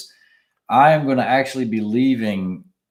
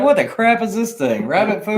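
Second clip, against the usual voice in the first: much higher, incredulous at the salad; mock disgust; 11 semitones higher than usual. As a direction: squeal it like you can't believe the rabbit food. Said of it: "I was like".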